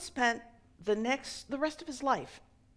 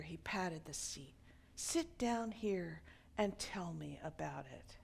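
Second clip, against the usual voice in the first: softer, kindly cheerful consoling; cheerful friendliness; 5 dB quieter than usual. Acted. Elderly man comforts the grieving drunk, softly cheerful. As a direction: gently invite him to sit and share. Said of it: "in the same tone of still cheerful friendliness".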